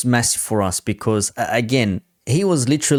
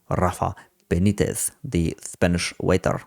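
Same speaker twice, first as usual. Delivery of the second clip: put-on lower-pitched, lightly French-accented name-drop; 3 semitones lower, 3 dB quieter than usual. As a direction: slip briefly into a French accent. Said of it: "I said it with a French accent".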